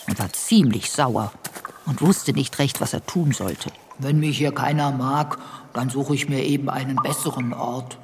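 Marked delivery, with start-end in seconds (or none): 4.0-8.0 sulky, softer grumble; sulking. Acted. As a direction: pout it like a hurt bear. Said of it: "schmollte er".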